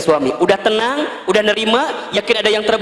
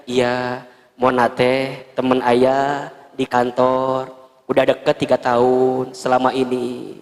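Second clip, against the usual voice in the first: low, slow sheepish answer; sheepish husband; 6 semitones lower, slower than usual. Retold or imitated. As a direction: mumble it like a caught husband. (suami menjawab malu-malu)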